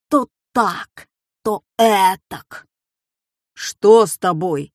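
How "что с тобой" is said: astonished. Acted. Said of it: "изумился папа".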